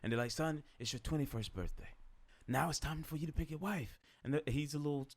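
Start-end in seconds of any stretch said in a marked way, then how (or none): 0.3-4.0 Jamaican king's voice. Retold or imitated. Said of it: "Your accent is uncanny".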